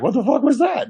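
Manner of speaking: high-pitched, baffled outburst; retold startled reaction. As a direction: imitate someone utterly taken aback.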